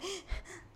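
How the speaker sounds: soft gasp acting out breathlessness; jadeo agitado imitado. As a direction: mimic being agitated with a quick intake of air. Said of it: "Yo estaba muy agitada". (jadeo de agitación, imitado)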